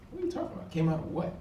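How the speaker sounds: retold stunned reaction to the rumor; incredulous disbelief. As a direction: caught completely off guard, retelling it. Hearing rumor friend came out.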